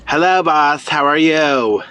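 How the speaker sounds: toned-down but firm greeting; slightly too forceful. Real, not acted. Caller told to tone it down, still a bit forceful. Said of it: "Put it down just a tad bit more".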